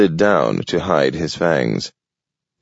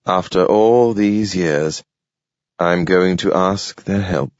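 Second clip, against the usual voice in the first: slow, deliberate weary words. Acted. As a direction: let each word weigh heavy. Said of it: "speaking very slowly".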